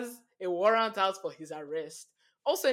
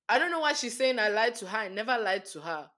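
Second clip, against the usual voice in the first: acting the fool; 3 semitones higher, 4 dB louder than usual. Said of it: "as a fool".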